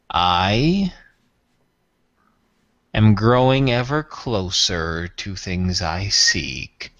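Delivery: low, slow, aloof alien lord; Tyrath voice. Acted. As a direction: speak down to them, coldly measured. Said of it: "he says".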